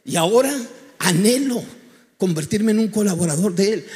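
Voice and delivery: rising into a loud, sincere vow; loud preaching burst of longing; fervent declaration. Real, not acted. Preacher declaring his new calling.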